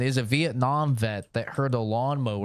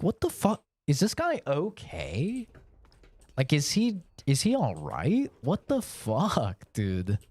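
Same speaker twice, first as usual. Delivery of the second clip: higher, incredulous, slowing down; shook disbelief; 3 semitones higher than usual. Retold or imitated. Streamer retells friends' shocked reaction to the screaming guy. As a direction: sound rattled and worried about him. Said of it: "we were all just shook".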